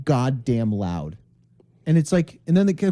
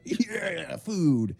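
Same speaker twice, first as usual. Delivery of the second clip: little dog; 6 dB quieter than usual. Retold or imitated. Dog voice in the car.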